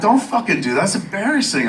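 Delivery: high, agitated mock protest; indignant. Man scolds colleague for calling the show, indignant.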